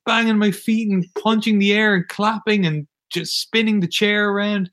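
high, breathless excited rush; all in one breath. Real, not acted. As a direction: gasp it out, still winded. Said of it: "I'm out of breath".

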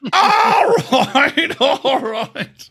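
put-on very high, stretched-out caricature British accent; mock British teacher's squawk; British schoolteacher. Playing along with co-host's comparison, hammed-up British teacher voice. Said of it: "the teacher from, uh, a song".

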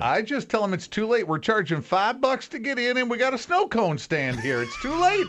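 acted stubborn local. Michigander charging admission, mock stubborn refusal. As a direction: wave them off, rising high at the end.

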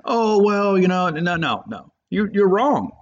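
high, hammed-up backpedaling voice, then a sudden drop; mock flustered denial. Mocking the wrong sources, flustered high denial. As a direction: play the caught-out rumor source squirming. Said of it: "go back to those people and say".

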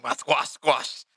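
slow, drawn-out whine over the squash; a hint of a slow robot. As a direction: mourn the dropped groceries slowly. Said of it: "Be like".

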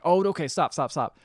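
acted-out urgent protest; mock pleading. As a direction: beg them to stop, half in earnest. Retold man being choked, begging.

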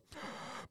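soft lip smack like a fish out of water; fish-mouth gasp. Retold or imitated. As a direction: imitate a small airless mouth pop. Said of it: "like it's a fish that's out of water".

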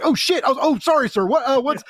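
high, startled stammer; retold flustered apology. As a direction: blurt it out, then scramble to apologize. Retells flustered slip on the phone.

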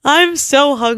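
put-on Hungarian woman accent, lightly done. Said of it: "That's my impression of a Hungarian woman".

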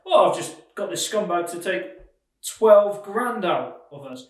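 lightly mocking imitation of a gleeful lender; imagined lender's gloat, punchy finish. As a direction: crow over the scumbag, slowing on the sum. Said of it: "laughing his head off right now".

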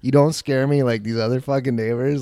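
loud retold confrontation; defiant challenge. Teller confronts neighbor at property line, loud defiance. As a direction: raise the voice, squaring up to him.

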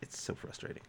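frustrated whisper. Real, not acted. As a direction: whisper it, fed up.

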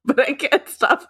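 slow, loud, laughing quote. Retold or imitated. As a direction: giggle through the words, drawn out. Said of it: "I was just like".

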